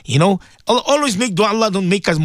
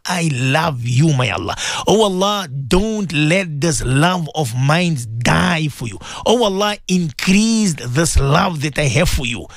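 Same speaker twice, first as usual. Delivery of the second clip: tender prayer; 2 semitones lower, slower than usual. Acted. Personal prayer to Allah.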